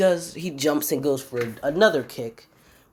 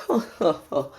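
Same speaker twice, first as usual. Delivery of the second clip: higher-pitched imitated ho-ho laugh; mock laugh; 3 semitones higher than usual. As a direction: act out his chuckle in separate syllables. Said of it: "as he starts to laugh".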